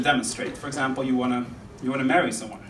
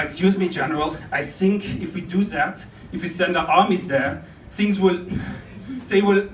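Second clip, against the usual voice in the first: put-on halting German-accented military advice; German-accented soldier addressing a general; hesitant German officer. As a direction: grope for the missing word in a German accent. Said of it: "certain army".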